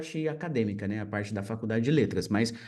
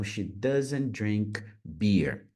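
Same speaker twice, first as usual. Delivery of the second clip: slow teaching read; 4 semitones lower, much slower than usual. Shown as a demonstration. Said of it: "repeated slowly".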